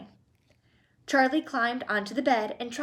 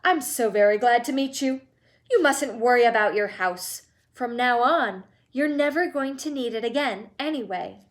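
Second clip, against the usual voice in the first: warm; 4 dB louder than usual. Acted.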